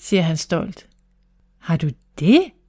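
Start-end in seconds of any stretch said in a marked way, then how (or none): 1.6-2.4 astonished, surprised, caught-off-guard tone. Narrator reading the mother's reply to her son's news, surprised. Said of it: "siger deres mor forbavset".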